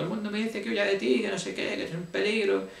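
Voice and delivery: high, mocking imitation of her; mimicking his ex. Telling how she kept calling him a danger, imitated mockingly. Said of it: "Porque ella me decía".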